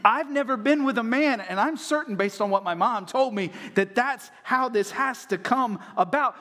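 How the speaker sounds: lightly voiced teenage girl; mock teenage Mary. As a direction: plead it like a confused teen. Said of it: "She's saying".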